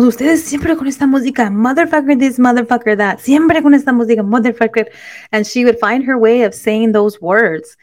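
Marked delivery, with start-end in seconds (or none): 0.1-4.9 scolding mom. Retold or imitated. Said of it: "my mom".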